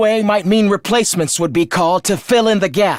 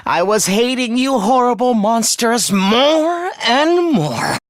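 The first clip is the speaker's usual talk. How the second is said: slow, drawn-out loathing, stretching the last words; seething hatred; slower than usual. Acted. Villain confessing long-held hatred to his former comrades, seething. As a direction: let the hatred build, slowly.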